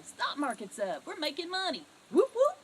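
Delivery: celebrate, whoop whoop cried out high; excited whoop whoop. Shown as a demonstration. Stock trader cheering the market to coworkers, high whoop. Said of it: "What if you were to go".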